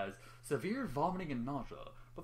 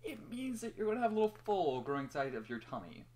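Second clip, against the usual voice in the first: nervous grin; 6 semitones higher than usual. A narrator's reading. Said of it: "with a nervous grin".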